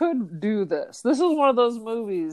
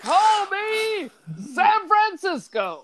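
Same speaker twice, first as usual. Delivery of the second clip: put-on high voice; 11 semitones higher, slower than usual. Jokey boast in put-on voice.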